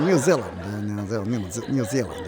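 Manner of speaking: muttered practice at a New Zealand accent; half-hearted New Zealand imitation. Shown as a demonstration. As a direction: keep trying out the New Zealand sound. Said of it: "New Zealand talks like this".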